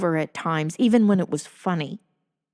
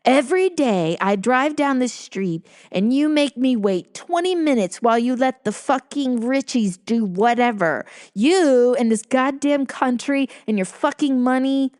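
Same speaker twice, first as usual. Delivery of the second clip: mildly acted rant of an irate husband; mock shouted tirade, accent half dropped; retold angry shout; 3 semitones higher than usual. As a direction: imitate his outburst, a touch raised. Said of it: "shouted in his sexy accent".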